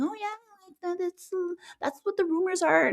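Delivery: high, fast mock gossip voice; a hammed-up dismissive imitation; mocking sugarcoater. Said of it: "just sugarcoating it and saying".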